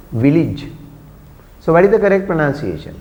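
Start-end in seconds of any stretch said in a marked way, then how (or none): 0.1-0.7 village said as VIL-ij; short second vowel. Shown as a demonstration. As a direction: village with a quick, short "lij". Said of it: "This pronunciation is village".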